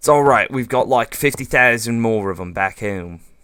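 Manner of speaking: put-on Australian accent. Commenting on a lost block in the game: put-on Australian accent. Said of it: "my inner Australian right there".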